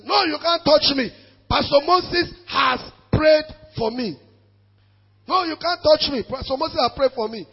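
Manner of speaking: loud, pleading defiance; defiant cry. Retold or imitated. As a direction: cry out against the spirits. Woman defying demons in testimony.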